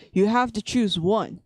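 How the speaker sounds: usual speaking voice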